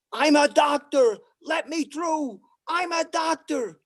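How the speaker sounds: man in the subway calling out urgently; mock urgent yell. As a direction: push through the crowd shouting.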